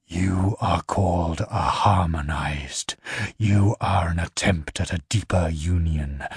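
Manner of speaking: low, measured voice of an alien being; low infernal voice. Acted. The infernal questioning the Empire's envoys, low and measured. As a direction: speak down low like something not human.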